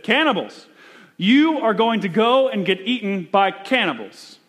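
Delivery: a hint of a scandalized old church man; objecting church man. Church member opposing Paton, lightly voiced alarm.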